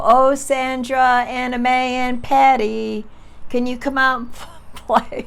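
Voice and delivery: high, loud, drawn-out sing-song call with a laugh at the end; a girl calls three friends to come play, loud and drawn out. Retold or imitated. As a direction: stretch each name loud and high like calling kids outside. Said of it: "I'd go".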